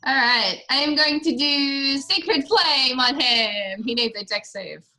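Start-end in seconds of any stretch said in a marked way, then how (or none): 0.1-3.8 lightly voiced, slow bubbly tiefling cleric; a hint of Jester's playful drawl. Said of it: "That was my best Jester impression, and it's terrible".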